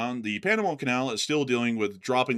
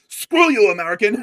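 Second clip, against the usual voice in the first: much higher, loud angry yell; hostile shout; 7 semitones higher, 10 dB louder than usual. Pretend. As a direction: spit it out like a defiant enemy. Mock North Korean retort.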